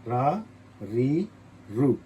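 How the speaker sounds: each syllable stretched out slowly; slow syllable demo. Shown as a demonstration. Teacher sounding out रा, री slowly for students. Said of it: "री इस तरह लिखेंगे".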